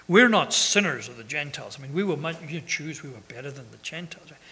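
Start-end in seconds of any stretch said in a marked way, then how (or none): 0.1-1.8 tongue-in-cheek sarcasm. Retold or imitated. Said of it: "tongue-in-cheek, a little bit sarcastic".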